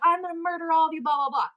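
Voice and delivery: high, quick imitation of a raging brawler; mock threatening rant. Brawler threatening everyone in the bar, high mock rant. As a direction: rattle off the threat dismissively.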